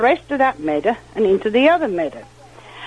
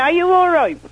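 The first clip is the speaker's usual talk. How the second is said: higher-pitched, lightly voiced check on someone hurt; imitated concerned rescuer; 7 semitones higher than usual. Man reaching the girl after the bull attack, retold concern. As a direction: lightly act out the rescuer's question.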